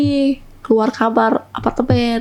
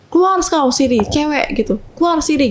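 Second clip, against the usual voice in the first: mock angry Medan yell; 4 semitones higher than usual. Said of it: "Ngomongnya tuh kayak binatang semua".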